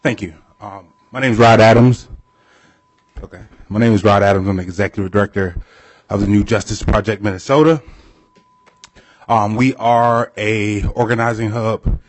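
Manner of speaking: winded from running; catching breath after a run. Real, not acted. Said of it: "I ran to get here".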